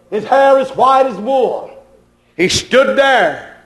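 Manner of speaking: measured, evenly pitched scriptural cadence; preaching recitation. Real, not acted. Preacher describing Jesus among the candlesticks, cadenced preaching recitation. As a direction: recite each detail as its own ringing phrase.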